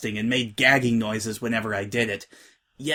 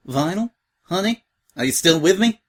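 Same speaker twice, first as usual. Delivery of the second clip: calling out; 6 semitones higher, 6 dB louder than usual. Acted. Therapist calling her back.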